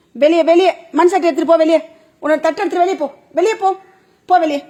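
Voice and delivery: loud firm get-out scold; scolding loudly. Real, not acted. Owner sending the dog out of the house, loud scolding.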